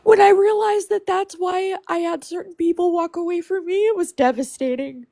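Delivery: real crying, pitch rising on the words; crying while speaking. Real, not acted. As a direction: voice breaking into tears. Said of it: "I'm so emotional".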